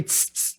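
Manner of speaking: TSS, a hissed Carioca S dragged out; drawn-out final S. Shown as a demonstration. Complaining about Carioca voice notes, imitated drawn-out hissing S. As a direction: imitate the trailing S as a sibilant "tss". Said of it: "um S puxando e fica aquele".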